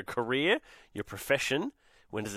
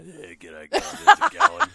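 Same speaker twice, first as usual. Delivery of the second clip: mock host greeting; 8 dB louder, slower than usual. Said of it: "should hear Kirsty off air".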